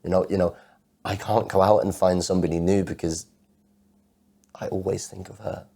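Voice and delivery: loud, impassioned outpouring; anguished protest. Acted. Man protesting that love isn't a mistake, anguished and loud.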